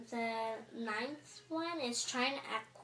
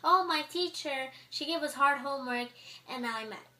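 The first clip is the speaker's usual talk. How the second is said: clean complaint; 3 semitones higher, 5 dB louder than usual. Shown as a demonstration. Student griping about a teacher without cussing, mildly indignant. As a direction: voice a mild, clean-worded gripe, pitched up. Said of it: "Why couldn't you say".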